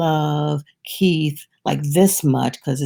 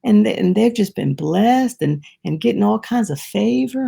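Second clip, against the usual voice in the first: high, quick mock complaint; imitating his own jealous self; a hint of petty resentment; resentful grumbling; 5 semitones higher than usual. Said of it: "I've said".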